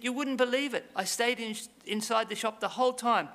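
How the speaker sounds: high, whiny voice of a crying friend; lightly acted sobbing excuse; mock tearful Ali. Ali tearfully explains to shopkeeper.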